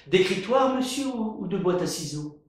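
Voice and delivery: high, eager questioning; curious. Acted.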